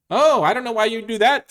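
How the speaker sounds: high, loud goat protest; middle billy goat. Acted. Middle goat talking the troll out of it, high protest. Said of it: "said the middle billy goat Gruff".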